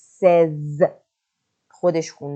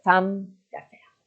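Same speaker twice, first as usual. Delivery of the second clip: slow clear model; 2 semitones higher, much slower than usual. Shown as a demonstration. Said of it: "یک خانم تاجر".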